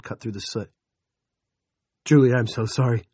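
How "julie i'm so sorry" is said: near wail. Acted. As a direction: voice loud and cracking with grief. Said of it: "He was nearly wailing".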